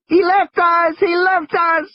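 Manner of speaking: Lex wails over and over in the car; steady wail. Acted. High, steady wailing child. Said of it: "in a steady, monotonous wail".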